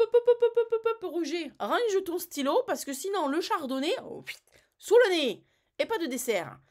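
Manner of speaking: high, loud, hammed-up hushing of Roger; mock bossy industry boss. The food industry hushing Roger, a hammed-up loud bossy voice. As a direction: shoo him off like a bossy boss.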